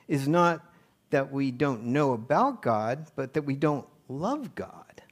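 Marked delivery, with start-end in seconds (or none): 3.2-5.0 hushed whispered point; whispered confession to the room. Real, not acted. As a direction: lean in and whisper it. Preacher drops to whisper.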